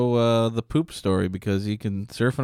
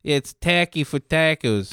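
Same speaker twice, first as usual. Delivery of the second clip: put-on voice; 5 semitones higher, slower than usual. Wordplay in a put-on voice.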